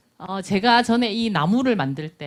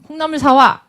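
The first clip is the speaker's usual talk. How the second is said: loud, higher barked command; bossy order; 6 semitones higher, 11 dB louder than usual. Shown as a demonstration. Mom ordering her child to buy bean sprouts, loud command. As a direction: order it, no room for refusal. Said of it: "이러면 강요인가요?".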